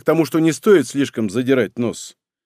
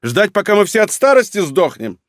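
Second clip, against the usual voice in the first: high loud angry retort; shouting match; 7 semitones higher, 4 dB louder than usual. Acted. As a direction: throw it back angrily.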